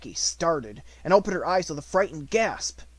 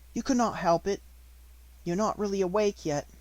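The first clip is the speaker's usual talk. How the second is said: higher, kind comforting voice; gentle comforting; 6 semitones higher than usual. Acted. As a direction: comfort a frightened girl. Sarah comforts Becky.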